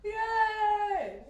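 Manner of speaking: loud, high cheer; hype man. Real, not acted. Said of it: "I'm my own hype man here".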